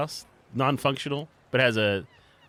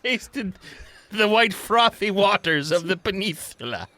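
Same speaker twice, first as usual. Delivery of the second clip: high silly voice; 11 semitones higher, 5 dB louder than usual. Acted.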